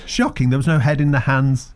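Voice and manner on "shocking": exclaimed. Real, not acted. Mocking disbelief at error.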